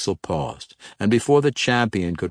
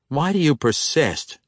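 pressing question; 7 semitones higher than usual. A narrator's reading. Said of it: "Jarlaxle asked".

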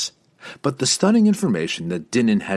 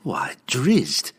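feigned confusion; 4 semitones higher than usual. Acted. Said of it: "with obviously feigned confusion".

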